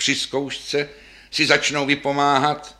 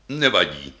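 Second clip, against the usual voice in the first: lightly voiced deep old instrument; deep bass voice; 5 semitones lower than usual. Standing bass answering the other bass, in a low voice. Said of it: "také hlubokým hlasem".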